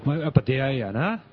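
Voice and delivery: a light Kansai Tsurube voice, only slightly put on; a hint of Tsurube's folksy Kansai musing; Tsurube impression. Host tosses in a Tsurube line to the panel, lightly voiced. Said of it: "鶴瓶です".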